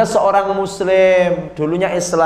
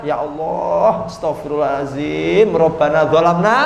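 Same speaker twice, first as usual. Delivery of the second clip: acted repentance; 3 semitones lower than usual. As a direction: intone it like a penitent. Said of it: "tobat, tobat".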